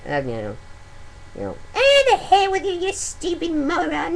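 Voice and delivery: mock scolding mom; mom's voice. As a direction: snap like a fed-up mother. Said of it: "mom just is like".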